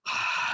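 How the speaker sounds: long audible breath, as if smelling food; demonstrative sniff. Shown as a demonstration. Acts out smelling food, eyes closed.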